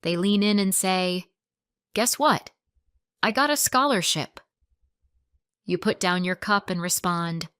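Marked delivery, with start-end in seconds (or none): 1.9-4.4 excited news. Shown as a demonstration. Acted friend shares big news.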